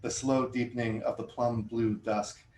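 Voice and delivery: measured, deliberate poem recital; poetry reading. Acted. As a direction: read each line like it matters. Starts reading next poem.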